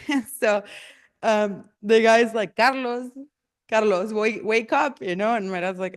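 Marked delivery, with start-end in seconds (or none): 2.6-5.0 raised, higher mock call; calling to wake someone. Guy rousing the meditating dad, calling to wake him. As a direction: imitate trying to rouse a sleeper. Waking the meditating man in story.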